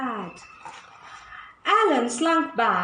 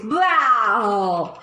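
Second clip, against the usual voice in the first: slow, louder villain boast ending in laughter; gloating alligator; 4 dB louder than usual. Acted. Alan the storyteller thrilling the animals, gloating laugh. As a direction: relish being scary, then laugh. Alan telling scary stories.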